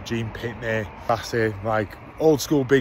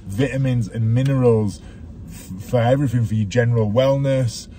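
coach mode. Real, not acted. Dad lecturing his son about healthy food like a coach. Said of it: "You went into coach mode then".

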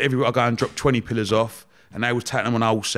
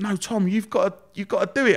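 imitating wife; 9 semitones higher than usual. Wife urging him on.

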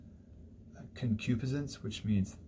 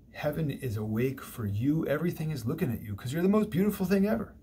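higher, fast gushing flattery; mock flattering Satan; 5 semitones higher than usual. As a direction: pour the flattery on quickly and brightly. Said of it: "paraphrasing Satan's flattery".

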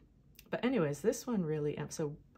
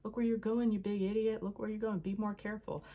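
higher-pitched, half-hearted yell of warning; mock shouted scolding; 5 semitones higher than usual. People warning the reckless Fool, mock scolding shout. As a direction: imitate onlookers yelling, without full force. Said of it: "people shouting at you".

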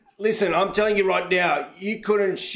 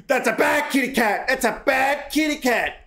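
laughing scold; 5 semitones higher than usual. Pretend. Scolding kitty while laughing.

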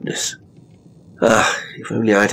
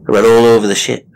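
fast, loud and higher; panicked rush; 6 semitones higher, 7 dB louder, faster than usual. A narrator's reading. Narrator telling his frantic search, fast and loud. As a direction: race through it in panic.

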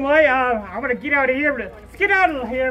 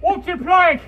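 pirate voice; 4 semitones higher, 5 dB louder than usual. Shown as a demonstration. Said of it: "so let's see, like".

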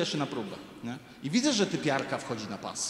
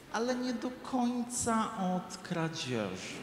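slow, higher drawn-out hedge; slow hedging; 6 semitones higher, 6 dB quieter, much slower than usual. Retold or imitated. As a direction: stretch the caveat out slowly, laughing. Saleswoman's odd explanation. (powolne, przeciągnięte zastrzeżenie sprzedawczyni)

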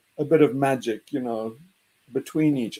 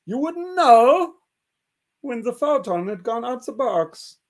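emphatic reply; 6 semitones higher, 5 dB louder than usual. Retold or imitated. Bohr voiced.

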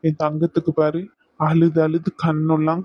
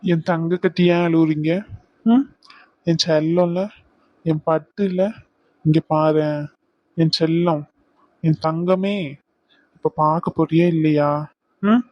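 tender coaxing. Acted. Fiancé gently coaxing his crying bride out of tears. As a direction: gently coax her to stop crying.

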